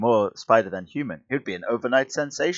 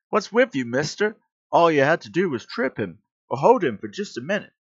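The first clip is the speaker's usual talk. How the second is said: higher, louder angry reproach; indignant scolding; 7 semitones higher, 4 dB louder than usual. Acted. Policeman scolding a bystander who let thief go, indignant. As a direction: tell him off in exasperation.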